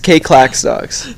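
slow, mock robotic readout. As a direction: drag it out like an automated system. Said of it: "most robotic fucking shit I've ever heard".

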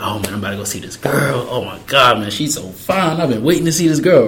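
retold giddy anticipation, rising in pitch; bubbly retelling of being smitten; bubbly excitement. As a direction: gush lightly, like reliving the excitement. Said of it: "I was all excited, I was all bubbly".

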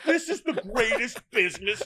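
high, loud, slowed-down amazement; giddy disbelief. Retold or imitated. Actor marveling to the hosts, high loud delight. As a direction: belt it out like you can't believe your luck.

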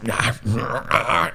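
grunting. Retold or imitated. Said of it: "and, like, grunting".

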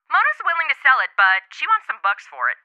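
ordinary delivery

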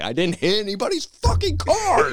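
high, loud mock outrage; pissed off. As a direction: imitate a furious, indignant denial. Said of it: "genuinely pissed off about this".

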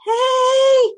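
high strained urgent call; whisper yell. Retold or imitated. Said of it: "the whisper yell".

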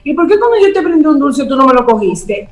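mock accusing questions, pitch up; accusing complaint. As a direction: whine the complaints as if wronged.

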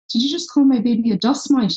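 imitating someone taken aback; mock indignation. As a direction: act out an affronted mother. Mother's offended reply, retold.

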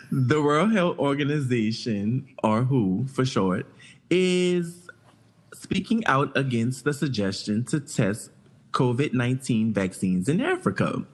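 reading a news report aloud, even and steady. Acted. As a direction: read it out like a news segment. Reads news item aloud.

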